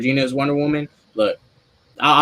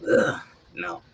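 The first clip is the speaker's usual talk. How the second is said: retold disgust; 5 semitones lower, 5 dB quieter than usual. Retold reaction of dislike.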